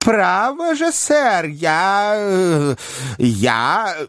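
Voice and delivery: high, stammering, flustered. Acted. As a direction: falter and lose the words. Winkle flustered.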